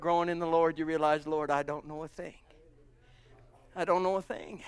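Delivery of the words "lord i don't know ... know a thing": humble confession. Acted. Humbled believer confessing to Lord.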